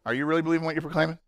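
rattled off fast, stress on really; quick pointed re-ask; fast repeat. Shown as a demonstration. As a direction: fire "really" off quickly in a rush. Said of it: "Just a question".

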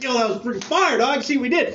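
mock locker-room hype; fired-up disciples. Disciples hyping each other after a win, excited. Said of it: "like the post-game huddle".

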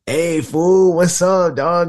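lightly voiced stereotyped cholo; mock movie cholo. Mocking how Chicanos are shown in movies, hammed-up cholo voice. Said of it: "representation that Latinos get in movies is".

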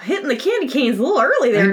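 chuckling through the joke; laughing. Real, not acted. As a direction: say it while laughing. Joking about the Santa sighting.

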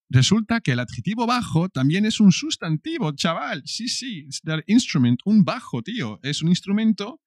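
high squeaky aside to a pal; playful high voice. Acted. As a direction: rattle it off in a high-pitched, matey voice. Playful aside on second meaning.

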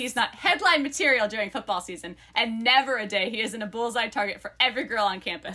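lively book-blurb read-aloud. Acted. Co-host reads friends the book blurb, lively read-aloud.

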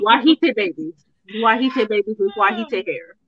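white stretched into wah-hite on every Wahite. Shown as a demonstration. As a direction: lean into the two-syllable Wahite. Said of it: "I said Wahite".

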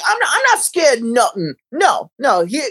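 hammy British tough talk; mock British accent. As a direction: put on a British accent, acting unafraid. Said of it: "the British accents are just so".

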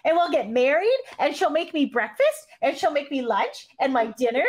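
high-pitched Mickey voice; a boy-band singer. Acted. Host reading a boy-band skit in high Mickey voice. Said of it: "I give Howie the high-pitched Mickey voice".

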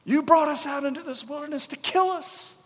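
high, whining mockery of the grumblers; a preacher mocking the grumbling Israelites, high and whiny; whiny complainer. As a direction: mimic a petulant complaint.

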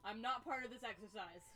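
booming, cheerful trainer; loud instructor voice. Acted. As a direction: shout the praise heartily.

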